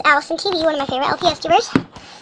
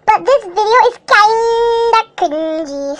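mock read; 3 semitones higher, slower than usual. Mock-reading a rude comment.

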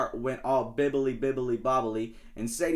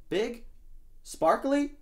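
excited shark; 11 semitones higher, slower than usual. Acted.

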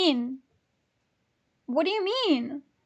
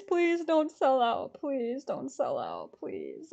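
slow plea sinking low and soft; pleading; 3 semitones lower, 4 dB quieter, slower than usual. Real, not acted. Ticket buyer begging tickets not to sell out, pleading. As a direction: beg slowly, fading to a low creak.

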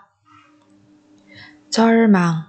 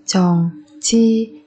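whispered drill. Shown as a demonstration. Teacher to students, whispered repeat. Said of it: "teacher repeats word".

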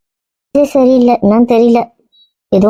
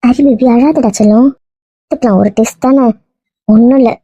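slow, coaxing reassurance; soothing comfort; slower than usual. Acted. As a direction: comfort a crying friend like a baby. Comforting a crying friend. (ஆறுதலாக, செல்லமாக)

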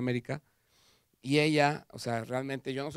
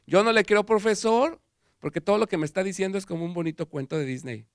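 defiant retort; 6 semitones higher, 6 dB louder than usual. Pretend. Defiant student talking back to professor.

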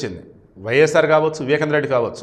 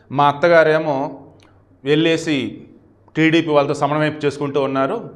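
Brahmani emotional. Retold or imitated. Brahmani telling of her family in jail, mildly emotional. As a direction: lightly imitate a woman's plaintive telling, stretching phrases. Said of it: "చెప్పింది చాలా ఎమోషనల్గా".

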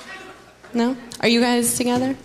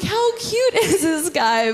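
high, slow gushing coo; 8 semitones higher, slower than usual. Retold or imitated. Smitten woman gushing over tiny Cesar, high and slow. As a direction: coo over him like he's adorable. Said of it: "Yeah, I'm like".

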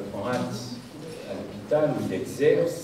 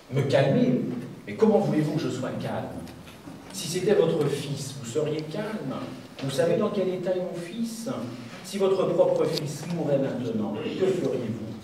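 higher, heated voice of an angry father; acted anger; 6 semitones higher, 4 dB louder than usual. A narrator's reading. Father to surgeon about his son in danger, acted angry. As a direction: fire the questions back, pitched up and indignant. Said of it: "Dit le père avec colère".

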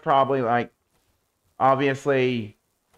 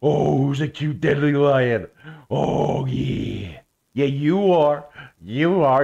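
doting pet-owner voice, a touch louder; pet talk to a lion; 4 dB louder, slower than usual. Real, not acted. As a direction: coo at the pet lion like a puppy. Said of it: "Why am I talking like this?".

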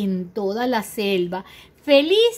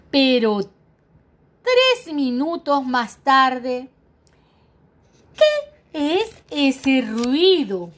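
suspense; 2 semitones higher, 4 dB louder, much slower than usual. Acted. Suspense in story.

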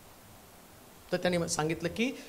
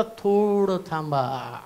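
soft God voice; 7 semitones lower, 7 dB quieter, slower than usual. Acted. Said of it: "तेच तो म्हटलं".

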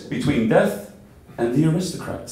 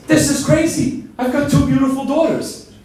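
much higher and louder, incredulous; shocked father; 10 semitones higher, 3 dB louder than usual. Acted. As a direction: cry out at the ugly baby in disbelief. Shocked father at maternity ward.

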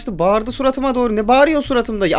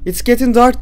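imitating the game voice; 5 semitones higher, 4 dB louder than usual.

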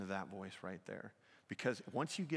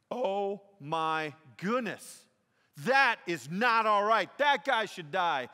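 much louder, higher mock outrage, slow start; indignant outburst; 10 semitones higher, 15 dB louder, slower than usual. David condemning the rich man, loud mock outrage. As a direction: rage at the other man's sin.

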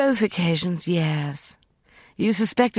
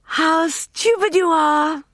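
impatient scorn; 13 semitones higher, 4 dB louder than usual. A narrator's reading. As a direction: spit contempt then hiss the end. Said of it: "she said, impatiently".

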